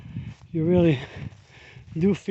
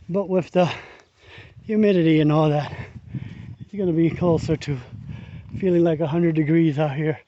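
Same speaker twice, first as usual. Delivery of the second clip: out of breath. Real, not acted. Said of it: "Sorry, I'm breathing hard".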